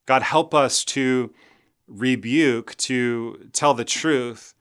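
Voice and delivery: slow, earnest closing prayer. Real, not acted. Pastor praying for his congregation, slow earnest prayer. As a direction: pray it slowly, fading toward the end.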